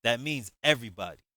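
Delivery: pointed, loud curt retort; with an attitude. Acted. Javon telling Shantae to leave too, with attitude. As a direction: put her in her place, curt. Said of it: "I said to her with an attitude".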